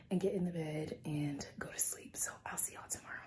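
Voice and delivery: hushed, trailing into a whisper; half-whispering. Real, not acted. Vlogger signing off before bed, half-whispering. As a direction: drop to a real near-whisper. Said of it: "Why am I whispering?".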